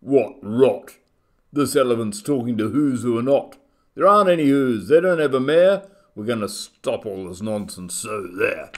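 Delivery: loud, scoffing monkey rant; shouting. A narrator's reading. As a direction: shout it down, then settle on the last words. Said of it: "came shouting".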